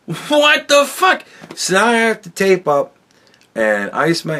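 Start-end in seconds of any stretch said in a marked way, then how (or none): 0.1-1.2 slow, much higher drawn-out "what the"; stunned disbelief. Retold or imitated. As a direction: gape at it, stretching each word high. Sees swollen ankle at home.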